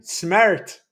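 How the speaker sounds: mock Irish vowel on one word; Irish accent. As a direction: make fun of an Irish accent. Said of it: "I'm making fun of the Irish".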